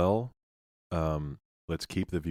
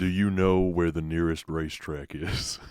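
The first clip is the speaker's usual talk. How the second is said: louder put-on movie cowboy voice; Sam Elliott; 5 dB louder than usual. Actor sends the cyclist on a mission, lightly imitated. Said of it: "it was Sam Elliott and he said".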